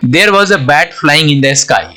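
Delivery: very slow, word by word, like dictation; slow example reading. Shown as a demonstration. Teacher reading the example sentence to students, very slow. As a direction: read it out slowly so students follow.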